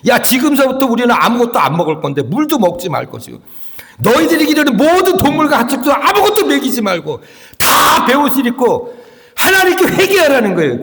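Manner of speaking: high-pitched royal proclamation. Acted. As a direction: proclaim it like a king, pitch climbing as the decree goes on. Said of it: "왕이 그렇게 선포를 하는 거예요". (점점 높아지는 왕의 선포)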